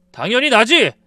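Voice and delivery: husband shouting his claim. Retold or imitated. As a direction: fire it back, loud.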